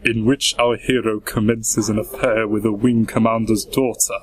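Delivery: a hint of a stately old villain reading; Christopher Lee voice. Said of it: "a singer's autobiography is Christopher Lee".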